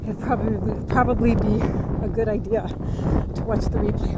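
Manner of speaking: breathless from a beach walk; puffing between words; out of breath. Real, not acted. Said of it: "Wow, I am out of breath".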